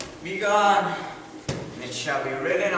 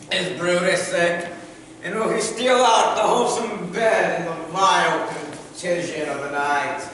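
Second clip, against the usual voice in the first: Shakespearean recital. Acted.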